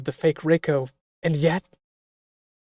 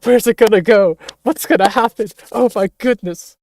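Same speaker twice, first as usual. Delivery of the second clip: higher and louder, real excitement; excited outburst; 6 semitones higher, 7 dB louder than usual. Real, not acted. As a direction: blurt it out, thrilled by the twist. Reacting to the story twist.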